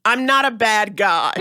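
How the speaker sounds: slow, emphatic mock plea; hammed-up officer wanting to be believed; retold pleading officer. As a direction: insist on it, drawing out each word.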